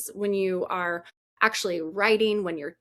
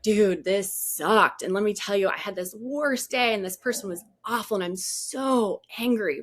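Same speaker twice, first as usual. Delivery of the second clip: mock angry vent. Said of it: "it makes me so mad".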